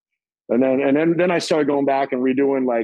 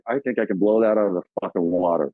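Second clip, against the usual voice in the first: cocky brag; 6 semitones lower than usual. Retold or imitated. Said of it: "the young me was like".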